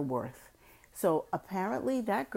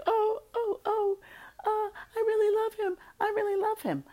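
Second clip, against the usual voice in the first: high, swooning lovesick voice; mock lovesick girl. Imitating the girl mooning over her man. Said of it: "and she's like".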